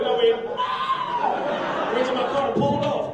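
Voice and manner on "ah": high mock squeal. Comic mocking the lady with a high mock squeal.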